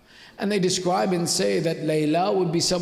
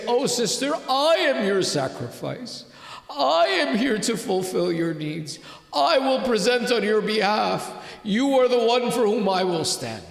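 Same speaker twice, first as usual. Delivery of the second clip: impassioned pledge; 4 semitones higher than usual. Retold or imitated. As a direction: declare devotion firmly, retelling his words. Brother pledges himself to sister.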